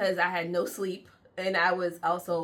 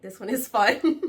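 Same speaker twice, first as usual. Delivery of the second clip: bright excited; 3 semitones higher, 8 dB louder than usual. Real, not acted. Upbeat vlog intro.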